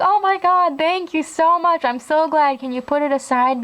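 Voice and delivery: retold breathless-thanks gush, easing down in pitch; gushing relief. Friend thanks store employee on the phone, gushing relief. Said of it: "Because we were that desperate".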